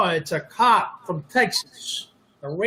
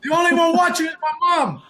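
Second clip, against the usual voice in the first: mock high joke voice; 11 semitones higher than usual. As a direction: squeak it out as a self-mocking joke. Joke about his mom watching.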